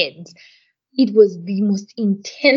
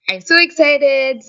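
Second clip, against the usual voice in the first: stretched, higher, louder 'so excited'; retold excitement; 6 semitones higher, 5 dB louder, slower than usual. Woman telling friend about unboxing her new toy, excited. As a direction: draw it out slowly with giddy emphasis.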